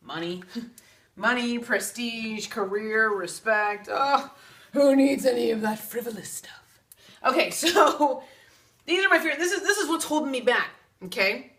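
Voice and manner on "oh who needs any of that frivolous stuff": sarcastic. Acted. Mocking her own fears sarcastically.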